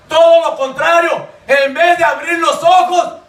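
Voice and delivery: impassioned, insistent sermon delivery; fervent preacher pressing rhetorical questions; full-force preaching. Acted. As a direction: preach it out hard in driving phrases.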